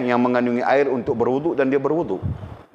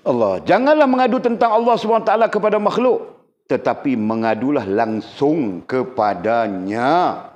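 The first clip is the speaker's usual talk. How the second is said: formal text reading; slower than usual. Acted. Teacher reading the lesson's maxim to students, formal recitation. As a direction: read the maxim out slowly at the end. Reads out the text being taught.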